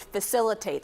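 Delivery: "facilitate" set apart and punched; stress on facilitate. Real, not acted. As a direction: lean firmly on the word "facilitate". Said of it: "there's a lot of emphasis on that word".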